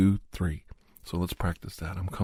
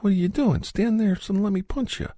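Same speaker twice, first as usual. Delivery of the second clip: mocking dumb fighter; 12 semitones higher than usual. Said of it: "They're like".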